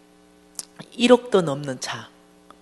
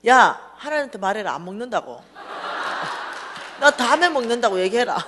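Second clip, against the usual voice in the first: worked-up, loud retort; mock-angry yell back at a friend; fuming; 3 semitones higher, 5 dB louder than usual. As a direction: act out a huffy refusal. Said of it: "어찌 열받아".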